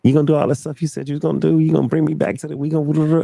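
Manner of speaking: mock her gushing over the phone, voiced high; imitating the woman. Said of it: "she's just like".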